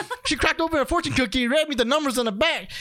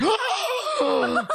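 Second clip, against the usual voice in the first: mock outrage; 2 semitones higher, slower than usual. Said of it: "And she's like".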